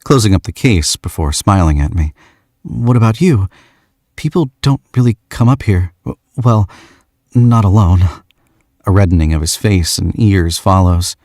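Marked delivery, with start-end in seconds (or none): 2.6-8.1 put-on lightly higher young man's voice; shy young man. George asks the stranger why she came, lightly shy. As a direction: ask with awkward shyness.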